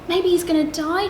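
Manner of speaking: chirped. Acted. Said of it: "chirped the bird".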